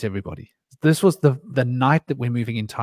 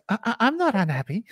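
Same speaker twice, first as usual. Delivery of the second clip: higher-pitched, faltering protest; imitated stammering denial; 9 semitones higher than usual. Older girl answering the boy, stammering denial. Retold girl denying being unhappy.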